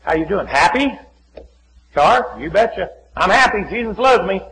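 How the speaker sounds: upbeat greeting rising into a loud declaration; happy acquaintance's greeting. Retold or imitated. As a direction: play a man bubbling over with faith. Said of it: "That's all he ever says".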